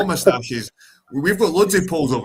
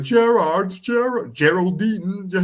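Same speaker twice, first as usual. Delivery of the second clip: schoolkids teasing; 6 semitones higher, 4 dB louder, much slower than usual. Retold or imitated. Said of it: "people were like".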